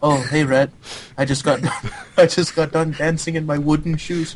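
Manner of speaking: put-on teasing copy of his accent; mocking the teammate. Host teasing a teammate about wooden shoes, mock accent. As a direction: tease him in his own accent. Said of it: "And I'd be like".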